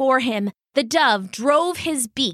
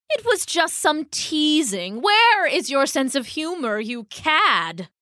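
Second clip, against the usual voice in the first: affronted bird, pitched up; indignant dove; 6 semitones higher than usual. Acted. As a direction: scold the mouse with wounded dignity. Dove indignantly defends teasing.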